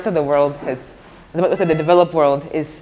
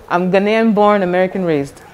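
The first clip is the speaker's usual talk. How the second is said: laughing; 2 semitones higher, 5 dB louder than usual. Real, not acted. Teased about her accent, she laughs while answering.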